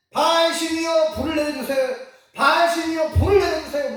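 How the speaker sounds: high, loud chanted plea to a god; loud praying. Acted. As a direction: cry out the prayer at full voice. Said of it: "그렇게 엄청 큰 소리로 기도했단".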